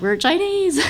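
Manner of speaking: high sing-song declaration; cheerful mock announcement. Mom imagining a lion dance convincing them, high sing-song. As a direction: chirp it up high. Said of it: "incept you and me and be like".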